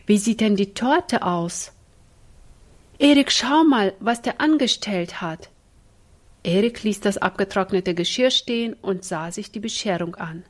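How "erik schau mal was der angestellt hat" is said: higher and louder call across the kitchen. Acted. Ina calls her brother over to the ruined cake, loud. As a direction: shout for Erik to come look.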